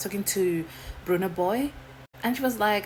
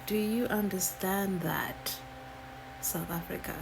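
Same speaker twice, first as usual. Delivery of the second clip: smug coloniser. Retold or imitated. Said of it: "they're like".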